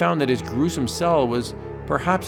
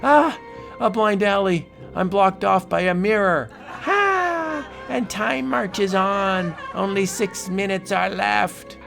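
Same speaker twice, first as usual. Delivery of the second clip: desperate alarm; 8 semitones higher than usual. Acted. Desperate in maze.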